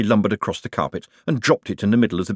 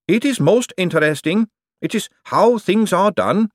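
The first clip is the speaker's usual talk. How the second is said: high, loud golem voice in alarm; a huge clay golem, horrified; 10 semitones higher, 4 dB louder than usual. Acted. Golem Gladys speaking.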